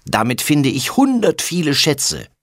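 put-on high, proud little boy calling out; excited boy call. A narrator's reading. Little brother boasts about his treasure maps, high proud call. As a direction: crow it like a small treasure hunter. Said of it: "ruft er".

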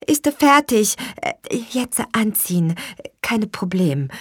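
high-pitched, gentle reassurance; softhearted masseuse, pitched high. A narrator's reading. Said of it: "sagte May sanft".

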